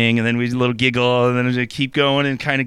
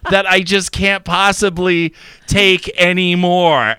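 slow, higher imitation of a lover; mock satisfied; 5 semitones higher, slower than usual. Imitating partner begging off in bed, mock satisfied. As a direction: stretch out the fake surrender.

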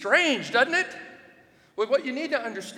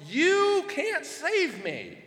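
defiant taunt; 8 semitones higher, much slower than usual. Acted. Trash-talking idols with scripture.

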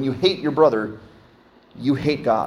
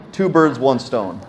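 Two birds, one stone spelled out slowly, each word weighted; slowed-down proverb for emphasis; slow and deliberate; slower than usual. Shown as a demonstration. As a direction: lean on Two, then let it land slowly.

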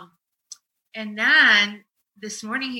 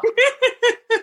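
higher burst of laughter; 13 semitones higher than usual. Real, not acted. Laughing at her oblivious family. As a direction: break into a laugh.

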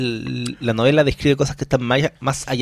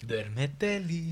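hushed; 4 semitones higher, 12 dB quieter, much slower than usual. Real, not acted. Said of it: "cuidando un poquito el volumen de voz".

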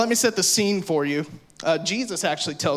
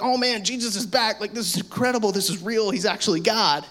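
imitating excited followers; 4 semitones higher than usual. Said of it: "super excited 'cause they're like".

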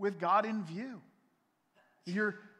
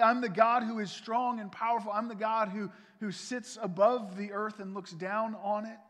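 louder, higher and proclaiming; booming God voice; 4 semitones higher, 6 dB louder than usual. Acted. God declaring his power to Abram, booming. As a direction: thunder out God's greatness.

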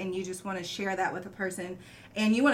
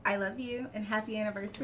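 soft, tender anniversary wish; romantic; 5 dB quieter than usual. Real, not acted. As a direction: say it softly to your partner. Anniversary wishes to partner.

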